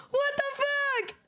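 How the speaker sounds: high, slow stunned question; stunned disbelief. Real, not acted. Streamer stunned that Nick survived, high and slow. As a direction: drag it out in shock, high. Shock at twist.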